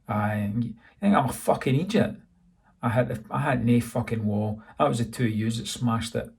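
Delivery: a touch of Scots grit, indignant and swearing; lightly voiced angry van driver denying it; angry Scottish driver. Jimmy angrily denies hitting wall.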